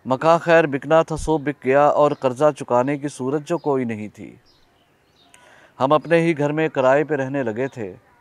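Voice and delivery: measured poem recital with long pauses between lines; poetry recitation. Acted. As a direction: recite your nazm phrase by phrase, letting line endings fall. Recites second narrative poem.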